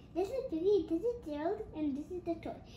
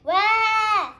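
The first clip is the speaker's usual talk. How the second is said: high loud drawn-out wow; loud excited wow; 4 semitones higher, 14 dB louder than usual. Acted. Kid reading book cries out at toy, excited. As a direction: gasp in delight.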